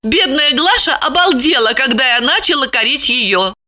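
high, reproachful woman's voice; indignant Lipochka. A narrator's reading. Lipochka pieces together his misdeeds, indignant. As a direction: accuse him in a high voice.

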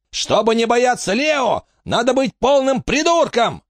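намного выше и медленнее, без большой громкости; огрызнись в сердцах; заорал. A narrator's reading. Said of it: "рванулся к ней и заорал". (сдержанный крик Пёсьей морды)

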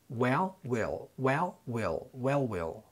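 "Well" with open eh, "will" with clear ih, in quick pairs; e and i contrast. Shown as a demonstration. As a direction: alternate light e in "Well" and distinct i in "will". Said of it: "وننطقهم بالترتيب". (Well بكسرة خفيفة وwill بكسرة ظاهرة)

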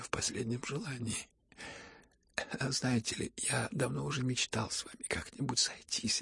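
soft, breathless near-whisper; whispering weakly. Acted. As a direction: speak with the last of his strength. Тихий умирающий Ипполит. (слабый шёпот)

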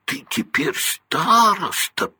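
high, slow twin's gasp of disbelief; mock-amazed brother, high and drawn out; terribly surprised. A narrator's reading. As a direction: act stunned by the news. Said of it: "жутко удивился".

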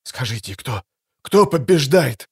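drugged, thick mumble; slurred speech. A narrator's reading. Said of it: "не совсем членораздельно".

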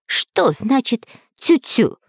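frightened. Acted. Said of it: "перепугался попугай".

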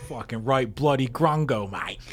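rough mock Australian slang, lightly done; Australian accent. Co-host showing off his Rhea Ripley Australian accent. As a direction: lay the Aussie on thick, cheekily. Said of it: "That's Rhea Ripley, all right".

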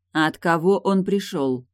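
slow, calm repeated question; cool, steady repeat of the question. Acted. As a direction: repeat it calmly, no rush. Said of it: "спокойно повторила Тильда".

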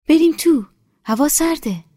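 put-on high, loud, eager voice of an older village woman. A narrator's reading. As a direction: greet her like a long-lost daughter. Nesa calls them inside.

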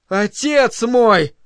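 high, slow, ringing address; sonorous. A narrator's reading. John kneeling before the director, sonorous. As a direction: ring it out slowly and high. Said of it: "и звучно произнёс".

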